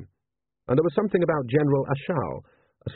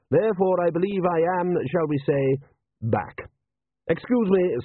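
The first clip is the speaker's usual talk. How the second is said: lightly voiced measured patrician; urbane patrician; 3 semitones higher than usual. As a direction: give a mild ruler's dry report.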